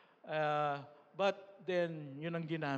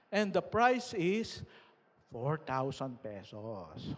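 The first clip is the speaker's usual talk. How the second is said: lightly voiced host, slow and drawn out; mock emcee announcement; 3 semitones lower, slower than usual. Retelling the party host announcing the prize, slow mock announcer. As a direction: stretch it out like revealing a prize.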